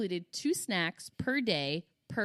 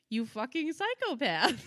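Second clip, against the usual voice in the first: laughing mock thought; 4 semitones higher than usual. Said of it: "followed up with".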